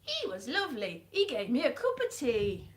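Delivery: lightly put-on character accent; the Doctor. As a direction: reminisce in a half-hearted impression. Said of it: "that's the doctor for you now".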